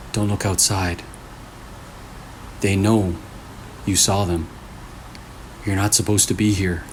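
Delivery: ominous message. Acted. Phone's creepy message voiced.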